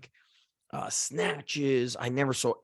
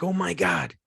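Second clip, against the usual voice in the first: raised-pitch amazed exclamation; retold astonishment; 6 semitones higher than usual. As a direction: imitate someone stunned by the news. Retold astonished reaction to the news.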